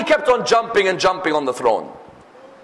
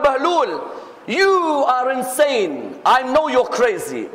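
high, drawn-out declaration; emphatic accusation; 4 semitones higher, slower than usual. Retold or imitated. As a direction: stretch the charge out, pitched up. Harun confronts Bahlul as insane.

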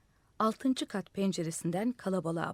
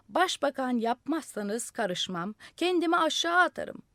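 moderately raised yell, rising to loud and high; yelling threat; 6 semitones higher, 4 dB louder than usual. A narrator's reading. Madman on the roof threatening to jump, yelling. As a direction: build up to a shouted threat. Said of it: "Deli bar bar bağırıyordu".

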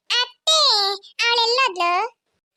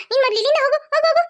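shouting; 4 semitones higher, faster than usual. Acted. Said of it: "ಯಾಕ್ ಕೂಗ್ತಾ ಇದ್ದೀರಾ?".

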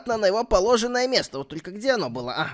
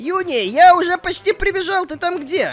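raised, loud call to someone away; 5 semitones higher, 4 dB louder than usual. Acted. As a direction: call out to your sister as you run. Зовёт сестру издалека. (громко, высоко окликая сестру)

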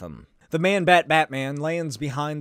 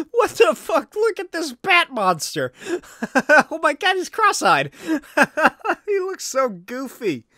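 high, loud laughing outburst; cracking up at a goofy drawing; laughing disbelief; 11 semitones higher, 4 dB louder than usual. Real, not acted. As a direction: crack up at the silly picture. Laughing at comic panel.

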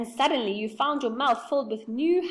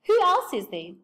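eager question; 8 semitones higher, 9 dB louder than usual. Acted. Beth asking eagerly about neighbours.

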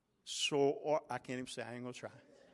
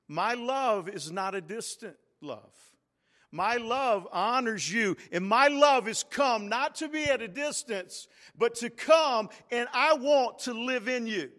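rising, louder voice of God's tender promise; voicing God; 5 semitones higher, 6 dB louder than usual. Preacher voicing God to the church, rising and louder. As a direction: speak God's love building up. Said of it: "God says".

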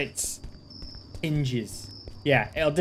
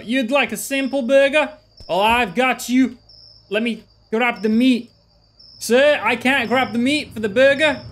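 bright put-on shop-worker voice; vendor voice; 5 semitones higher than usual. Server apologising to customer, high put-on vendor voice. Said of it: "I don't know why I'm doing the voice".

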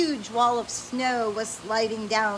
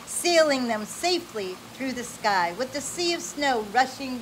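bright, animated read-aloud voice; lively storybook reading. Acted. Parent reading an adventure story to a child, animated.

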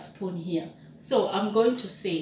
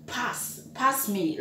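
polite request; 5 dB quieter than usual. Shown as a demonstration. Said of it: "a polite way of saying".

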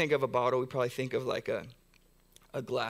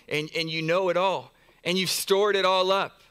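swelling prayer; 4 semitones higher, 6 dB louder than usual. Real, not acted. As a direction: build louder to a fervent peak.

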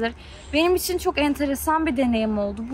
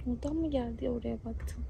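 hushed, softer voice; quiet; 13 dB quieter than usual. Real, not acted. Hushed after a noise.

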